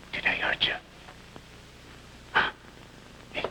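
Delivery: put-on whispered, gently asking if the boy is hurt; soft whisper. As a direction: breathe the question softly to a scared child.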